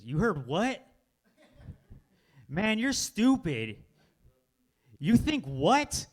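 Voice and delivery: high, drawn-out mock disbelief; incredulous scorn. Friend reacting to a foolish belief, incredulous scorn.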